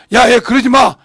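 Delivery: a retold mother-in-law snapping "stop that"; scolding mother-in-law. (시어머니가 며느리를 나무라는 큰 목소리)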